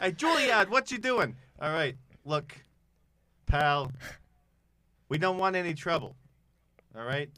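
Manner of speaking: a light Brooklyn tough guy; lightly voiced Brooklyn goon; Brooklyn accent. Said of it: "like, accented".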